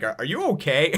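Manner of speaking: amused, lightly mocking question; taunting disbelief. Villain to Nami after the flowers, taunting disbelief. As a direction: tease with a laugh in the voice. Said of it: "kinda, like, taunting her".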